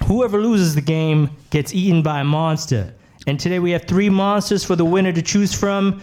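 put-on host lightly copying a New Yorker's accent; borrowed New York accent. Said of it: "Stop doing my accent".

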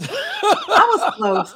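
slow, high, laughing; laughing admission. Real, not acted. Host owning her word slip, laughing. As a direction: admit it through laughter. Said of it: "She said the escargot".

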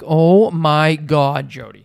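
slow exasperated Oh my God; exasperated drawl. Retold or imitated. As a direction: drag it out, fed up. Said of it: "I'm like".

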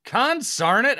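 put-on high, loud old-timer cry; old prospector exclamation. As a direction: yell it like a grizzled old miner. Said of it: "What did you just say?".

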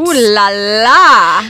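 swooning ooh la la. Pretend. Swooning at fancy restaurant.

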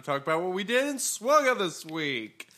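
announcer-style segment intro; hammed-up radio jingle delivery; podcast sounder voice. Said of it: "You already did the sounder".

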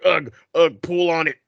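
lightly voiced dim caveman grunts; Neanderthal. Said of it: "the fucking Neanderthal mind was like".

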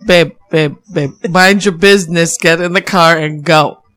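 slow, spaced-out retold warning; firm pleading. Partner on the phone telling her to leave, firm. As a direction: draw it out, spelling out the advice.

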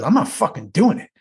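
lightly imitated stubborn refusal; Dayton. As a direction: play a balking colleague. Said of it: "You know the way he talks".

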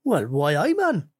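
mock Geordie whine, rising on man; lightly put-on Geordie complaint; Geordie accent. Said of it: "Almiron's gone".

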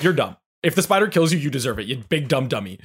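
mock scornful jeer; taunting. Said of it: "Midna's like".

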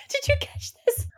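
high, giggly ask; laughing question. Real, not acted. Asking co-host about a funny line, laughing.

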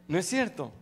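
ordinary talk

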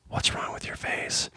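hushed whisper. Retold or imitated. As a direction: whisper it secretly. Whispered cue to parent.

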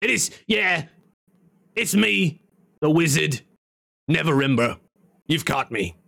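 wizard in a stone, comic voice; imperfect impression, jumping up in pitch; Gilbert Gottfried. Wizard admitting who he is, imitating Gottfried. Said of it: "sounds like Gilbert Godfrey".

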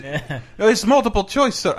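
put-on high-pitched generic foreign accent; Brendan Small's immigrant character. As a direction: imitate a call agent with a comedy immigrant accent. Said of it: "like Brendan Small's impression of, like, generic immigrant character".

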